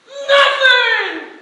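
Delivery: loud, high grand "Nothing!"; showman reveal shout. Retold or imitated. Performer revealing the egg trick, shouting. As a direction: announce it like a magic trick.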